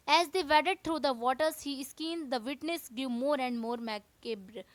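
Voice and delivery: slow, careful textbook reading; teacher reading the chapter to students, slow and deliberate; reading aloud. Acted. Teacher reading the English lesson to class, slowly.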